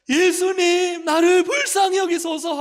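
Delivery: very high, full-volume acted cry; imitating a blind man shouting to be heard. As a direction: yell the plea at the top of your voice. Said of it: "더 크게 소리를 질러서".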